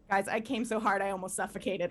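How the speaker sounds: ordinary talk, nothing marked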